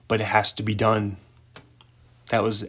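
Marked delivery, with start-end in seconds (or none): 0.1-1.2 understated, matter-of-fact delivery. Acted. Ben answers that it must be done, matter-of-fact. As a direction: state it as simple fact. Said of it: "how matter of fact he is".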